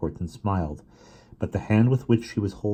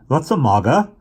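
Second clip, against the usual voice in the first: teasing giggle; 8 semitones higher, 8 dB louder than usual. A narrator's reading. Max setting off the joke.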